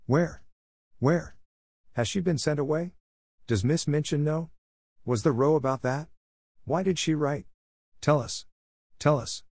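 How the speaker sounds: high, urgent volley of questions; clamouring questions. A narrator's reading. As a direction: fire off each question like another eager child. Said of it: "There was a perfect babel".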